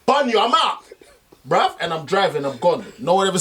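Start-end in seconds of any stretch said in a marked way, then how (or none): 0.1-0.8 imagined storm-off. Retold or imitated. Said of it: "but I'm like".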